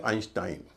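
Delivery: आइंस्टाइन with "ei" said as a long "eye"; correct pronunciation. Shown as a demonstration. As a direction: say आइंस्टाइन ending "-styne", rhyming with fine. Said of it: "ई आई का उच्चारण आई होता है". (आइंस्टाइन में ई आई को "आई" बोलते हुए)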